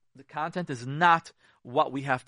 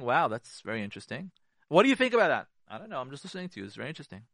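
calm listening reply; faster than usual. Shown as a demonstration. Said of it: "as long as you're saying".

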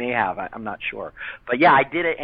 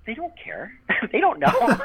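laughing aside; 11 semitones higher than usual. Retold or imitated. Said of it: "I'm like".

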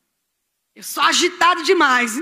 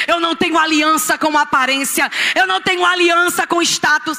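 insistent preaching litany, each line stronger; building declaration. Real, not acted. Preacher renouncing every alliance before the church, building declaration.

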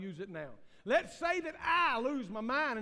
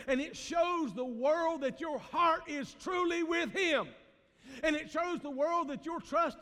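preaching shout; 6 semitones higher, 4 dB louder than usual. Real, not acted. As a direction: drive it home to the church at full voice. Preacher climaxing, shouting to congregation.

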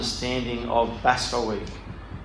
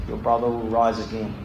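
Jesus's calm feeling about death; 2 semitones lower than usual. Shown as a demonstration. Jesus consoling Martha over her dead brother, calmly. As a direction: say it as if death were nothing to fear. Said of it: "So this is how Jesus felt about death".

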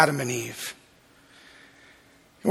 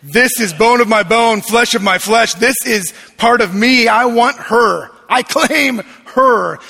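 smitten Adam; 3 semitones higher, 5 dB louder than usual. Retold or imitated. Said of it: "he goes".

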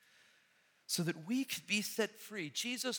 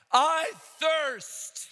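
high, loud cry of thirst; 12 semitones higher, 8 dB louder than usual. Acted. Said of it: "In a loud voice, he cried out".

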